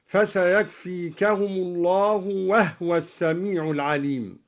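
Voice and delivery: "وهو" said wahwa, ha without vowel; silent ha. Shown as a demonstration. Teacher recites another example with "وهو" as wahwa. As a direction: run "وهو" together as wahwa. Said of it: "هكذا".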